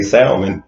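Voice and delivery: "salmon" with the L pronounced; sounded L. Shown as a demonstration. Husband quoting how many people say it, "salmon" with a sounded L. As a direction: say "salmon" as SAL-mun, sounding the L. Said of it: "the L was silent in salmon".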